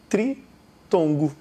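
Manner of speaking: "tritongo" broken into tri, ton, go with pauses; syllable by syllable. Shown as a demonstration. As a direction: say "tritongo" slowly in separate chunks. Teacher spells out the new term. ("tritongo" pausado, sílaba por sílaba)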